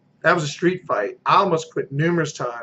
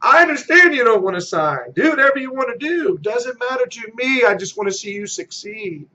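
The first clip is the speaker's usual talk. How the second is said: a raised, emphatic agent agreeing with the seller; agreeable salesman; 4 semitones higher than usual. Shown as a demonstration. Agent to a listing prospect, agreeable and emphatic. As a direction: win over the reluctant seller by agreeing. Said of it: "So it's attitude, agreement".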